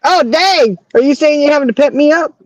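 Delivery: high-pitched, playful indignation; mock offence. Friend hears she needs pepping up, mock offended. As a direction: act affronted at being the one who needs cheering.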